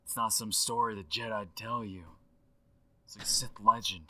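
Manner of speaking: casual dude storytelling on a voicemail; Aaron Paul impression through a phone line; voicemail effect. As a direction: leave it as a rambling phone message. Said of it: "With the voicemail effect".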